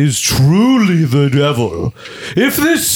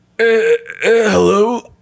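hoarse, scratchy, raspy, pitched-up voice; 6 semitones higher than usual. Answering a phone call in a comedy skit, raspy voice. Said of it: "You sound a little raspy".

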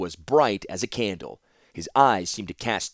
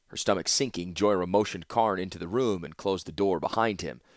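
plain reading voice

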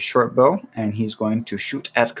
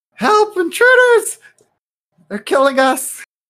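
very high, loud, shrieking goblin cry; 7 dB louder than usual. Game master voices a goblin yelling toward the cave, goblin yelling for help. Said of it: "as he's yelling in the direction of the".

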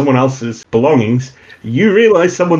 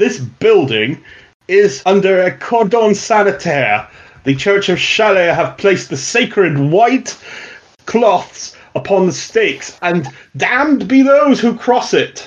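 more posh, put-on, pitched-up voice; 6 semitones higher than usual. Narrating a scene where a voice is heard from a building: posh voice. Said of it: "you can hear a more posh voice saying".

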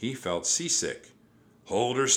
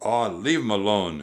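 loud, growled delivery; 6 dB louder than usual. Reading the pirate Pinky's line to Jack, growling. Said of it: "Pinky growled at Jack".

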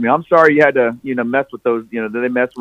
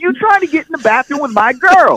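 put-on man's yell, higher-pitched. Retelling the boyfriend coming through the driver's side: imitating a man yelling. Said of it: "he's yelling".

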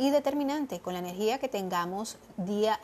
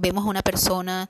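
ordinary delivery

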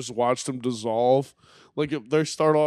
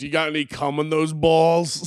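put-on heavy, thick Brooklyn accent, laid on; 3 semitones higher, 3 dB louder than usual. Describing a documentary clip, quoting a man's dirty talk: thick Brooklyn accent. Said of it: "But it's like a thick Brooklyn accent".

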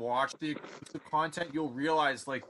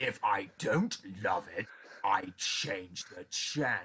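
put-on haughty critic voice, lower pitch; 6 semitones lower than usual. Picturing a film lover as a food critic: Peter O'Toole impersonation. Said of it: "that's my Peter O'Toole impersonation".

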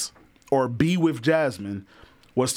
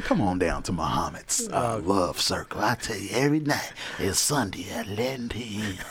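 three-packs-a-day heavy smoker voice; 5 semitones lower, 5 dB quieter than usual. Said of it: "I sound like I smoke 3 packs a day".

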